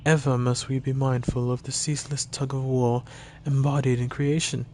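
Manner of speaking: measured, formal elf mentor with deliberate emphasis; stately elven instructor giving a lesson; elf teacher. Acted. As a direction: lecture a pupil in a lightly voiced elf character. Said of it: "I should have just gone with Posh".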